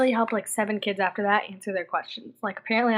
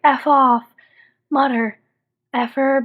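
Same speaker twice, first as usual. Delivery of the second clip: loud, higher mock outburst; joking cussing; 5 semitones higher, 9 dB louder, slower than usual. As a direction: punch out each censored swear playfully. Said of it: "Our family only cusses jokingly".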